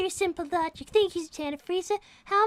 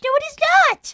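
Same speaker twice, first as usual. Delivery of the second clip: indignant shout; 7 semitones higher, 8 dB louder, faster than usual. Acted. Arguing over monkeys, in character.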